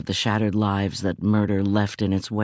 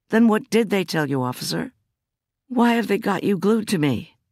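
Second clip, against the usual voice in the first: higher, pressing questions; indignant demand; 10 semitones higher than usual. Acted. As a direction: push him for the truth. Demanding answers from the cop.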